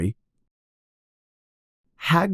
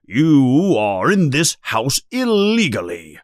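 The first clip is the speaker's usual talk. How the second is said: indignant outburst, a little higher; mildly yelled indignant order; understated yell; 6 semitones higher, 4 dB louder than usual. A narrator's reading. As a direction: protest loudly like an outraged uncle. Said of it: "yells Uncle Vernon".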